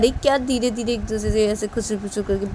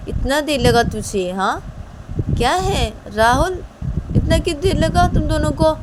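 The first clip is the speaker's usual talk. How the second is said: raised, higher scolding voice; 8 semitones higher, 3 dB louder than usual. Acted. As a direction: demand why they took so long. Siya scolds Ravi for delay.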